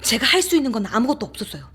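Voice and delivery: loud, high-pitched helpless distress; 겁에 질린 하소연. Acted. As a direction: raise the voice in frightened helplessness. Helpless narrator recalls being afraid. (겁에 질려 높고 크게 하소연하듯)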